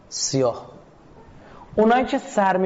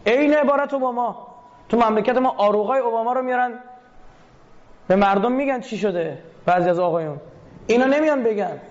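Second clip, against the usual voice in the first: heated indignation; 6 semitones higher than usual. Real, not acted. Indignant rant about Obama's words.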